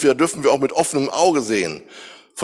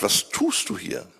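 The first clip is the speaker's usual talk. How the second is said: unvoiced, breathy whisper of God's question; God whispering the question to Elijah; 7 semitones higher, 7 dB quieter than usual. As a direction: breathe it like a secret.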